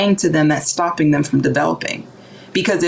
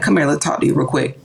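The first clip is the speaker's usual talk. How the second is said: calm mother; 4 semitones lower, faster than usual. Retold or imitated. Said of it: "she'd be like".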